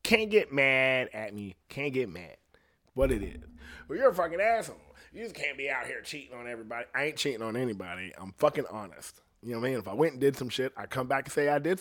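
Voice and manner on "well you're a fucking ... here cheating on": higher-pitched imitation of an angry accuser; mildly hammed-up retort; mock accusation. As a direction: play the offended partner hurling an insult. Acts out the accuser's comeback.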